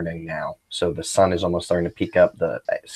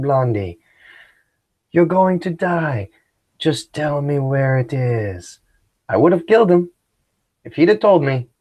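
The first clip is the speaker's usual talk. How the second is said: a hint of a scheming bandit talking his captor round; Tuco as a bandit; 3 semitones higher than usual. Bandit Tuco coaxing his captor, a lightly voiced bandit. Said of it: "I said".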